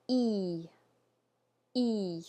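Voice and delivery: E said like English E in feet; French E sound. Shown as a demonstration. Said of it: "So let's say that".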